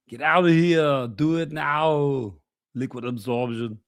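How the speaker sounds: a lightly done action-hero voice, the middle very slow; a half-hearted muscleman catchphrase; a hint of Arnie. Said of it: "we'll add Arnie to my repertoire".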